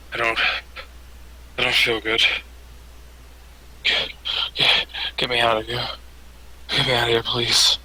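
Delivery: halting plea from a sickened captain; weakened and sick. Acted. Game master as sickened captain begging to leave, weakly. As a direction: struggle to get the words out, in pieces. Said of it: "starts to feel weaker".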